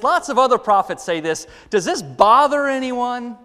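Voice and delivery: ordinary talk, nothing marked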